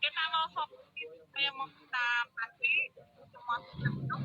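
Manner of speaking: faint, breaking-up call audio; corrupted glitchy audio. Real, not acted. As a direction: signal cutting out mid-sentence. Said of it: "Suara Mbak Wiwin nggak jelas".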